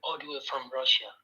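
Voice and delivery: quiet. Real, not acted. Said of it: "Can you speak up then?".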